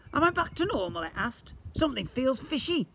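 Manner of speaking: booming slime creature. Acted. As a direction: play the magical blob, grand and eager.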